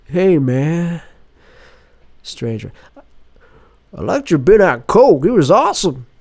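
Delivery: high, put-on eager fan voice; stranger's voice. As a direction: gush like a shifty fan. Stranger greets Tim.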